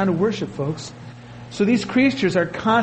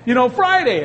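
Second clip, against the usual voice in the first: higher, knowing wink of a teacher; lightly voiced teacher dropping a hint; a hint of a sly teacher; 4 semitones higher than usual. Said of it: "a teacher who used to give away the answers".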